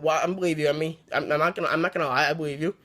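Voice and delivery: mild hint of a reassuring parent, said softly; soothing parent voice. Parents calming a scared Amy at breakfast, soft and gentle.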